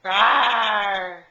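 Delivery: put-on a bigger, shouted lion roar for the toddler; playful lion roar. Shown as a demonstration. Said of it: "What does the lion do?".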